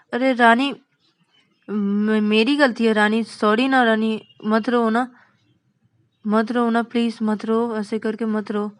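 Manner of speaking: insistent pleading that eases off at the end; pleading apology. Acted. Vikas implores Rani to stop crying, pleading apology. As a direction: coax urgently, then let it soften.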